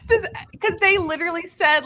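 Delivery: laughing through words; breathless laughing. Real, not acted. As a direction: keep laughing as you speak. Still laughing.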